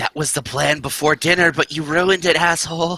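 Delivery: whispering in character. Whispering back to a party member in character: whispering in character. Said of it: "And I whisper back".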